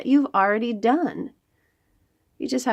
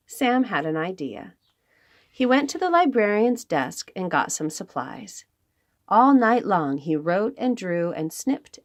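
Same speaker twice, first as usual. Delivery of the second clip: lively storybook read-aloud; reading to children. Acted. Librarian reads a picture book to the children, lively storytelling.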